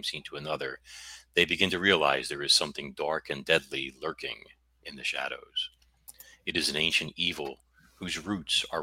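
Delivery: dramatic book blurb read; narrating voice. Acted. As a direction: read it like a movie trailer. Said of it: "I have to do my narrating voice".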